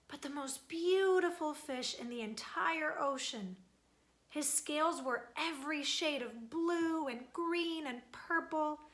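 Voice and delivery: expressive read-aloud storytelling; storybook narrator voice; story narration. A narrator's reading. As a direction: tell it like a picture-book story to kids.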